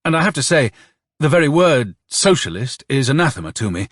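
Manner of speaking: high-pitched, emphatic confession; sudden blurt. A narrator's reading. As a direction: blurt it out with strong feeling. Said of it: "Turbin suddenly blurted out".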